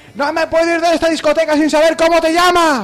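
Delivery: high, drawn-out shout over loud music. Pretending to be in a nightclub where you must yell: shouted over nightclub noise. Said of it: "estás en una discoteca, con lo cual tienes que gritar. Tienes que decírselo así".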